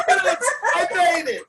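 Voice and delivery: high, drawn-out laughing cheer; triumphant. Pretend. Guest celebrating making it on the show, triumphant.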